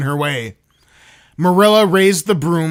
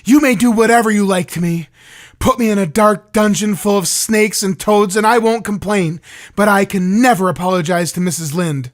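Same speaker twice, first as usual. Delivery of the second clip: Anne seething; 3 semitones higher than usual. Acted. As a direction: spit out the refusal quickly and hotly. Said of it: "Anne seethed".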